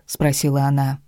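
usual speaking voice

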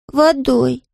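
put-on high, slow little boy in a thick Scottish accent; Scottish-accented small boy, earnest; Scottish child. A narrator's reading. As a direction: say it like a Highland toddler, proud. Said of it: "жёстким шотландским акцентом".

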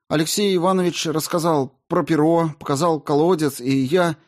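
high, loud panicked begging near tears; frightened pleading. A narrator's reading. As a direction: plead desperately, falling apart. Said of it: "Мальчишка пытался держаться".

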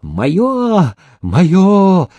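high, grabbing shout; greedy high-pitched yell; crying out. A narrator's reading. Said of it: "кричали".

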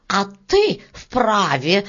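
slow, mildly hissed retort; a touch of hiss in the beetle's voice. Acted. Beetle snaps back at Varya, hissing. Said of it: "зашипела жужелица".

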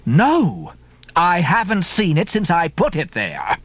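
a light landlady exclamation; landlady exclaims. Acted. Mrs Hussey remembering the harpoon, mild exclamation. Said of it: "and then exclaimed".

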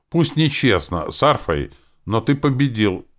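high, loud, agitated concession; excited. A narrator's reading. Demon admitting defeat to the hero, mildly excited. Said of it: "начала возбуждённо говорить".

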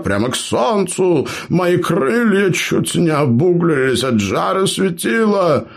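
high, bragging storyteller voice; boastful gnome. Acted. Gnome brags to clanmates, high boastful voice. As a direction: brag to the wide-eyed listeners. Eber tells his tale.

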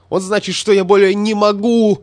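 screaming at the secretary; yelled in his face. A narrator's reading. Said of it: "закричал ему в лицо статистик".

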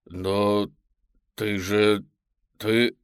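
halting shocked stammer. Acted. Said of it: "заикаюсь я".

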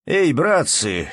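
loud call to the crowd. A narrator's reading. Ermolai calls out to the villagers from the cart, loud hail. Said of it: "закричал снова Ермолай".

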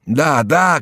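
high, eager confirmation; shouting. A narrator's reading. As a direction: call it out urgently. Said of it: "кричал Реми".

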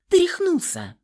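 high, loud furious cry; losing her temper. A narrator's reading. Heroine losing it with Nikolai, furious cry. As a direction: she snaps and lashes out. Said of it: "Выйдя из себя".

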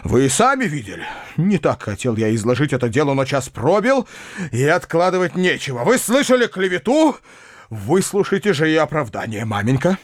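solemn declaration. A narrator's reading. Uncle proposing before the family, fervent and solemn. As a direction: build to a high, fervent proposal. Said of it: "продолжал он".

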